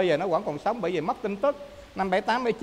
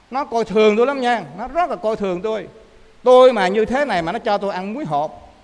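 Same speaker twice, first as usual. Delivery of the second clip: acted indignation; 3 semitones higher, 5 dB louder than usual. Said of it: "ông giận quá".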